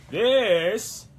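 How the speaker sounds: loud, high, drawn-out hero shout; Ash. Acted. Cosplayer starting the boomstick quote, shouted Ash impression. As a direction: launch a big heroic proclamation. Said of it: "best Ash impression right now".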